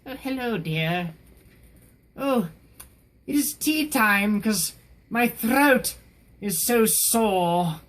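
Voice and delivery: put-on high, slow, drawn-out elderly Englishwoman; old British woman. Demonstrating the hired voice for age eighty, old British woman. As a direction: quaint old British lady, lingering on each word. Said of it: "now you get this voice".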